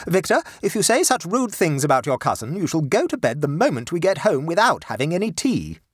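high, firm mother voice, scolding; a proper lady lecturing her boy; stern mother. Acted. Mother ordering her sulky son about, high and firm.

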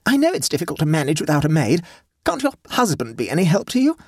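high-pitched, understated despair. A narrator's reading. Hostess without maids asking her guest, mildly despairing. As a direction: plead with a touch of despair. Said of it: "asked Sophie despairingly".

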